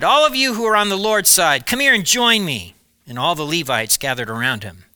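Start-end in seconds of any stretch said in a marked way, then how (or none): 0.0-2.7 loud, raised call across the camp; shouted call. A narrator's reading. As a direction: summon the crowd from the entrance. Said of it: "stood at the entrance of the camp and shouted".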